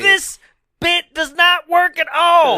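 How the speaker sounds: high, loud, slow complaint; goofy vendor voice. Pretend. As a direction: wail it as the vendor.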